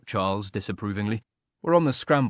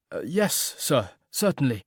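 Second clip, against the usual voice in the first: mechanical; 3 semitones higher, slower than usual. A narrator's reading. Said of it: "said Mister Trevor mechanically".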